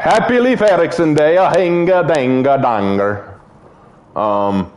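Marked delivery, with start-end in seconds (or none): 0.0-3.4 jokey put-on Norse accent; hammed-up Norse sing-song. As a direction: chant it in a mock Norse accent. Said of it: "Norse accent?".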